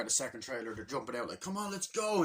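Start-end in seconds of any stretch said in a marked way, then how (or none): 1.4-2.2 excited Koopa cheer. Retold or imitated. Koopas jumping out, retold.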